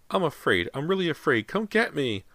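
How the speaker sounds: put-on high little boy's plea; frightened child. A narrator's reading. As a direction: plead to be rescued in a child's high voice. Lost boy pleads from wall.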